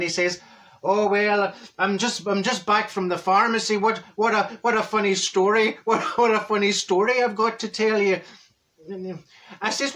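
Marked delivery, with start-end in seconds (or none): 0.8-8.2 chatty stage Irishman; lightly hammed Irish lilt; Irish accent. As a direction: set up a funny story in a mock Irish accent. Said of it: "He's Irish".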